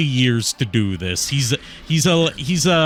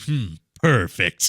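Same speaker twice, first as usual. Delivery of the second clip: low, lightly voiced brooding hero; a hint of a deep edgy antihero; Shadow voice; 5 semitones lower than usual. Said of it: "punctuated by Shadow saying".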